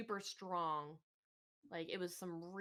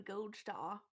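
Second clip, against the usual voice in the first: lightly British, dropped-r pronunciation of "Gold Star"; accidental British accent. Acted. Friend announces a food run, accidental British accent. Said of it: "I don't know why I went British".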